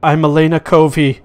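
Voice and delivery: woman's voice crackling through a speaker; tinny distorted voice. Acted. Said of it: "a tinny voice that is kind of distorted".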